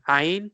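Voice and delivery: "Ayn" retried with a firm throaty onset; "Ayn" squeezed from the throat; Arabic ayn. Shown as a demonstration. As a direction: show the Arabic sound in "Ayn" carefully. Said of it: "Let's try that again".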